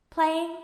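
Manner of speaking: "Playing" with a gentle questioning rise; almost a question. A narrator's reading. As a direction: lift the end of "Playing" tentatively. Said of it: "his tone almost a question".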